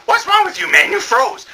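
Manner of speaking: high mock girl voice. Girl who stayed behind, high and pleading. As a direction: squeak it like a worried girl. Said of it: "and she's like".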